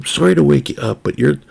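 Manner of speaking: lightly a sorry wannabe gangster; polite New York gangster. Retold or imitated. The Italian apologizes to his sleepy friend, in a light New York gangster accent. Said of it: "New York-ish wannabe gangster accent".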